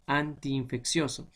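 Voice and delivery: "antiinfeccioso" drawn out at the double i; slow teaching "antiinfeccioso", ti and in distinct; separated double i. Shown as a demonstration. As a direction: slowly keep both i's of "antiinfeccioso" audible. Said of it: "entonces se separan".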